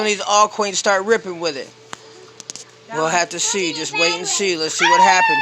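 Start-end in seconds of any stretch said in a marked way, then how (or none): 4.8-5.4 high falsetto. Real, not acted. Sign-off line sung out high.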